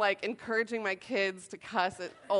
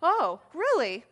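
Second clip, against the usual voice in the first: losing it; 3 dB louder than usual. Retold or imitated. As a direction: let sarcastic fury fly. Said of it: "To which then I lost it".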